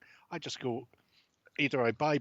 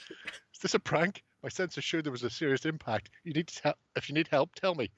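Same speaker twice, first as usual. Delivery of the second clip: alarmed operator; 6 semitones higher than usual. Acted. Tammy alarmed in the reading.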